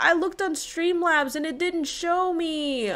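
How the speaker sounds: pleading excuse, stretched out; dismayed apology. Real, not acted. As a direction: wail it apologetically. Apologizing for missing viewers' comments.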